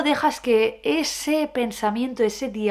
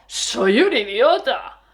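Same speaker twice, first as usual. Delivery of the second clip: stretched slowly with stress on "un"; slow drawn-out take; 4 dB louder, slower than usual. Shown as a demonstration. Demonstrating a slow goofy tone. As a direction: drag "Soy un idiota" out slowly.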